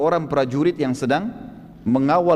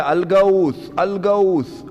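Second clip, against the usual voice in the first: retold shout; 3 semitones higher, much slower than usual. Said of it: "Dia teriak".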